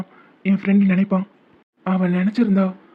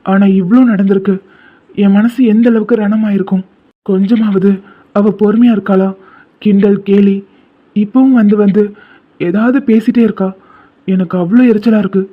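louder, bitter complaint about her teasing; irritated outburst; 6 dB louder than usual. Acted. Friend complaining bitterly about her teasing, raised irritated voice. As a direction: let the hurt spill out as anger.

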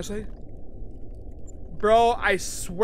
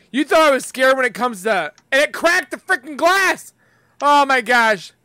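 louder, rushed panic; panicked; 4 semitones higher, 6 dB louder than usual. Real, not acted. Gamer panics as spider cracks the glass, louder. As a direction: blurt it out in a panic.

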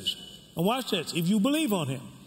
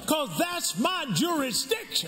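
preaching shout; 3 semitones higher than usual. Real, not acted. Preacher proclaiming to congregation.

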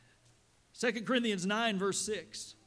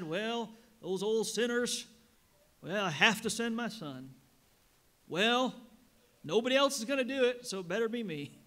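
mock reluctant God; 3 semitones higher, 5 dB louder than usual. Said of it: "You think God said".

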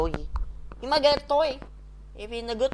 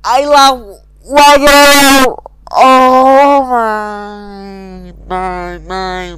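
bursting into loud laughter; laughing; 5 semitones higher, 15 dB louder, much slower than usual. Real, not acted. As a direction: laugh through the words, slowing down. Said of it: "I laugh".

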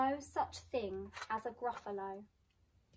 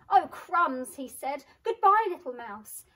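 frightened; 4 semitones higher, 11 dB louder than usual. Acted. Snake frightened off.

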